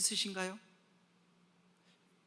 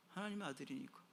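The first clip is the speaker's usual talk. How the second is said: hushed refrain; 10 dB quieter than usual. Shown as a demonstration. Preacher repeating the golden-spoon reason to listeners, hushed. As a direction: say it quietly to the listeners. Same refrain, soft then shouted.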